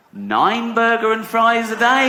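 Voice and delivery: high-pitched, slow squeal of disbelief; incredulous outburst. Acted. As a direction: stretch it into an exasperated high cry. Outraged punchline on diet options.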